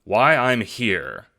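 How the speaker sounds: a touch of a fast-talking con man; Jacob's eager voice. Acted. Jacob pitching his plan to Roxy, eager.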